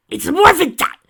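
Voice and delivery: battle cry. Acted. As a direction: call it out to the team.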